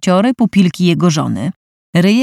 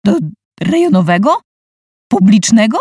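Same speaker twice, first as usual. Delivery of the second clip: howling in disbelief; 4 semitones higher than usual. Acted. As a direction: wail it out, appalled. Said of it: "zawył Robert".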